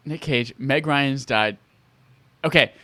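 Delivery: ordinary talk, nothing marked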